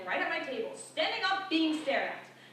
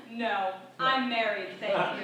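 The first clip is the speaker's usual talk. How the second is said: prim reply; 3 semitones lower, 3 dB louder, slower than usual. Retold or imitated. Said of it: "I simply respond".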